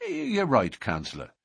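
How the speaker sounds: high start, dropping away submissively; meek. Acted. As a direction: back down meekly before the boss. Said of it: "said McMurdo meekly".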